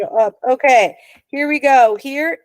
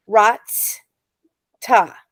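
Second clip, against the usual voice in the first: Rats and ta split by a clear pause, each syllable set apart; syllable break. Shown as a demonstration. Teacher to Hebrew class, breaking the word into its two syllables. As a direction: pause after Rats, then a fresh ta. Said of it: "accent it with your voice to say".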